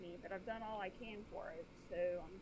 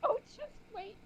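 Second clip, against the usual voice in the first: teasing; 11 semitones higher, 6 dB louder than usual. Acted. Teasing warning, high loud.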